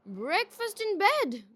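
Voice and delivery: high, slow cry of delight. A narrator's reading. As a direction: savour it, beaming. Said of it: "cried Malice".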